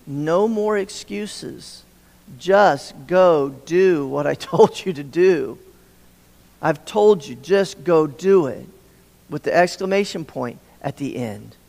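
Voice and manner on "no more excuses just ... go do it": stern parent. Retold or imitated. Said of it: "a parent that says to their child".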